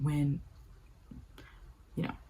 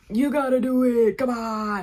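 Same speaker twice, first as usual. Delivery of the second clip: louder, higher pushy coaxing; pushy urging; 7 semitones higher, 7 dB louder than usual. Retold or imitated. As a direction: push him on, raised voice. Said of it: "And Corey's like".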